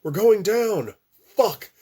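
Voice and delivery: high, loud panicked scream; screaming in a nightmare crash; terrified scream. Acted. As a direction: scream as the plane drops. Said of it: "someone screaming".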